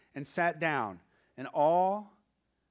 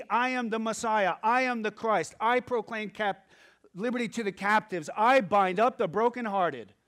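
loud, raised claim of who he is; bold declaration; 3 semitones higher, 5 dB louder than usual. Acted. Jesus declares himself Messiah to the crowd, loud. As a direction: proclaim each line with force. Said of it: "Jesus sits down and says".

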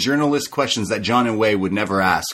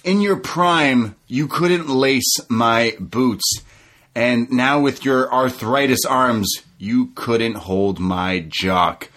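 slow, deliberate taunt; lightly voiced MJF sneer; imitating MJF; 2 semitones higher, slower than usual. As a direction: savour each insult slowly. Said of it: "He says".

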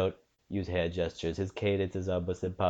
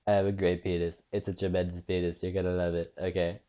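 lightly voiced Trump impression; a hint of Trump's cadence; Donald Trump; 2 semitones lower than usual. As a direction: do a passable Trump, short choppy phrases. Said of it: "a better Trump than I expected".

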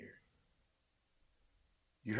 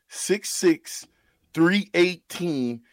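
each number said slowly; slow emphatic; much slower than usual. Real, not acted. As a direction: spell it out slowly for him. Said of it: "What I said was".

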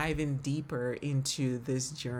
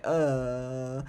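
drawn-out, imitated "uhh" of distaste; imitated listener's reluctant groan; mock put-off "uh"; 2 semitones lower than usual. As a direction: groan a long "uh" like an unimpressed listener. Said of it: "might be like".

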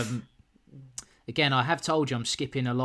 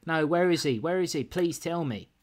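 higher-pitched, pleading mock panic; acted hysterical; 4 semitones higher than usual. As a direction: beg for news in mild mock hysteria. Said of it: "You'd be hysterical".

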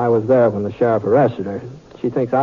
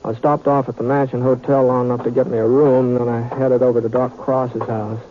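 easy drawling western narration; story narration. A narrator's reading. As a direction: tell it like a cowboy looking back.

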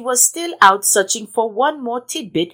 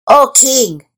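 high, loud jittery monkey; nervous monkey; 6 semitones higher, 5 dB louder than usual. Acted. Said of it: "said the monkey".

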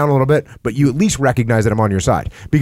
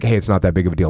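dismissive brush-off; 5 semitones lower, faster than usual. Shown as a demonstration. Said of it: "you can't just be like".

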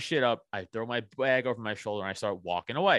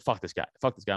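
lower-pitched, offhand imitation of buddy; dismissive urging; 4 semitones lower than usual. Buddy talking to his riled friend, imitated low dismissal. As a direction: drop the pitch, brush the guy off. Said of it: "not how you're saying it".

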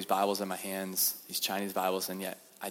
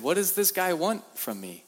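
high anxious question; worried, pitched up; nervous; 9 semitones higher than usual. Retold or imitated. Preacher wondering what the prisoner wants, nervously.

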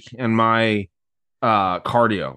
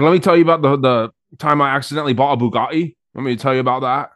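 Andrew Tate; 3 semitones higher, faster than usual. Retold or imitated. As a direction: lightly mimic a boastful storyteller, raised at the start. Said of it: "does a really good impression of Andrew Tate".

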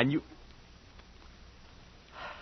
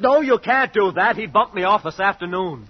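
high, loud panicked no; startled alarm; alarmed outburst; 8 semitones higher, 3 dB louder than usual. Acted. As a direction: stop her in sudden fright. Panicked refusal to his girl.

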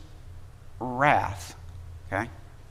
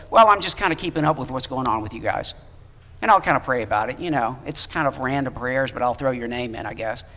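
mock half-hearted; 4 semitones lower, faster than usual. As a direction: toss it off like a lazy promise. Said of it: "called to say".

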